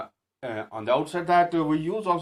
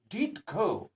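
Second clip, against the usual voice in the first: "did" raised high in "did go"; stress on DID; 9 semitones higher than usual. Shown as a demonstration. Teacher insisting that he went anyway, stressed "did". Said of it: "but to lay the emph".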